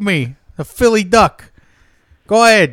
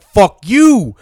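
mock defiant snap; 6 dB louder than usual. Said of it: "I'm like".

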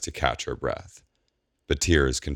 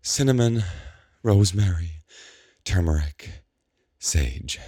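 calming mantra; 5 semitones higher than usual. A narrator's reading. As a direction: recite "Cinnamon, rosemary, turmeric, sage" to calm herself. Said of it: "trying to slow her breathing".

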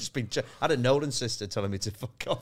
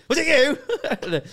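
loud, higher, very slow drawn-out accusation; slow mock challenge; 9 dB louder, much slower than usual. Comic playing chair-waving at an old crowd, slow loud mock threat. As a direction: stretch it out, daring the crowd.

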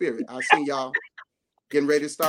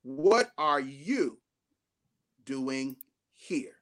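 God's question; 5 semitones lower, much slower than usual. Acted. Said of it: "the question God is asking you".

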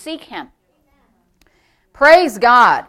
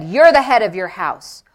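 low, firm pronouncement; lightly voiced divine verdict; the Lord's voice; 4 semitones lower than usual. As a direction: state it with authority. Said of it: "And so the Lord said".

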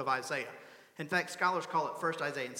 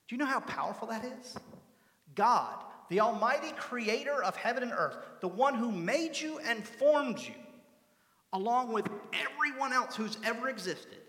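raised, higher preaching voice, building on each phrase; emphatic preaching; 5 semitones higher, 3 dB louder than usual. Real, not acted. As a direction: proclaim it with rising force. Preacher builds up God's greatness.

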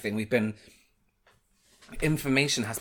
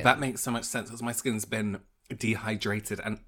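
talking through a mouthful; words round a bite of food; mouth full; 3 semitones lower than usual. Real, not acted. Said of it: "swallow the food in your mouth".

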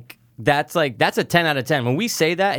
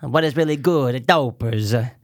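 slow, stretched-out welcome; drawn-out co-host hello; show-opening greeting; much slower than usual. Pretend. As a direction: drag out the last word for the listeners.

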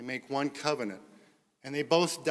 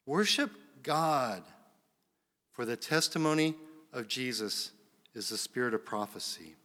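measured, solemn Bible reading; scripture reading. A narrator's reading. Pastor reading Revelation to the church, solemn reading. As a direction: read scripture aloud to a congregation.

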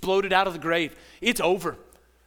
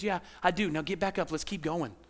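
soft, lower, kindly voice; gentle Jesus; 3 semitones lower, 6 dB quieter than usual. Retold or imitated. Preacher voices Jesus forgiving the believer, soft and lower. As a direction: lift them up gently. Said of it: "And he says".

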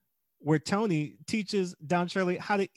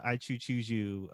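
Ralph quote; 6 semitones lower, 6 dB quieter than usual. Retold or imitated. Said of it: "Ralph gives Lisa the".

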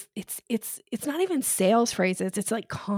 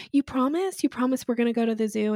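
a lightly voiced eager little kid, higher at first; 3 semitones higher, faster than usual. Mom imitating a small child pleading about the zoo trip, mildly higher. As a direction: imitate a kid begging for reassurance, faster. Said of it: "And they go".

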